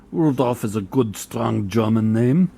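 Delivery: mock German-Russian accent; a hammy German-Russian accent on the soldier's name. Player naming his German soldier in a mixed German-Russian accent. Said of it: "I don't know what accent that was. It was kind of a cross between German and Russian".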